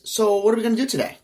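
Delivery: chirpy question from a sleeping wife; wife talking in her sleep. Retold or imitated. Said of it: "very clearly, not mumbled".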